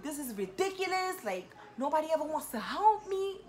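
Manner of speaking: high-pitched whining complaint, hammed up; whiny tantrum. Retelling complaining to her sisters about no help, mock high whine. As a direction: whine like a spoiled kid who's been ignored. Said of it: "My baby sister gets annoyed when I do that".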